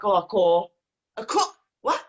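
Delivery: mock Black Country exclamations; playful Black Country imitation; imitated Yam Yam accent. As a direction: slip into a jokey Yam Yam twang. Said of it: "it's catching, you know".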